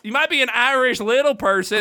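hammed-up Southern accent. Comic retrying his mocked punchline, Southern accent. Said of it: "that was a Southern accent".

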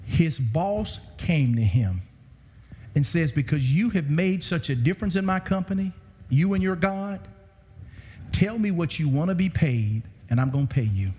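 slow it right down, deliberately. Shown as a demonstration. Preacher retelling the boss's offer to the congregation, slowly. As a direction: spell the offer out slowly so it sinks in. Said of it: "Let me say that slower".

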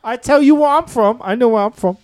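indignant attempt at Scottish; Scottish accent. Insisting on origins to the co-host, mock Scottish accent. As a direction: keep up the put-on Scottish, insisting. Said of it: "I can do Scottish".

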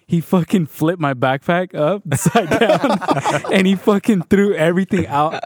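excited. Real, not acted. Excited laughing retelling.

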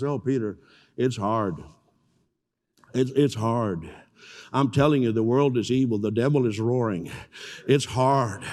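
low, weary-sounding imitation of complaining; mock whining. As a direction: grumble privately like a defeated pastor. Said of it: "We are having a whining convention".

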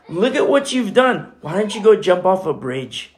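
accusing taunt. Acted. Preacher voicing Satan condemning a sinner, accusing taunt. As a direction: goad and condemn with rising intensity.

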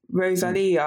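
"Rosalia" said the Spanish way; attempted Spanish accent. Shown as a demonstration. Trying a friend's name as in Spain, Spanish accent. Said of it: "the way the Spanish speak".

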